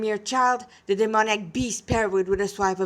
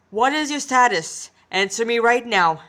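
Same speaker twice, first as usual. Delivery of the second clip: commanding; 2 semitones higher, 6 dB louder than usual. Acted. Boss orders an answer.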